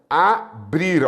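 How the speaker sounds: "Abrir" said as A, pause, brir; syllable division. Shown as a demonstration. Teacher showing that BR sticks together, split by syllable. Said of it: "com R você gruda".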